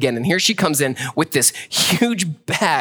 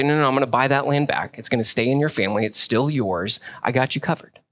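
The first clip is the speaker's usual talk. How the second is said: reassuring relative; 2 semitones lower than usual. Retold or imitated.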